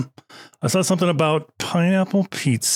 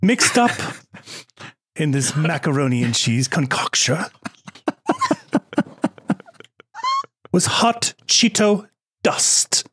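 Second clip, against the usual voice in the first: calm, lightly British storyteller; slightly British accent. Acted. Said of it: "answer this in a slightly British accent, very calmly".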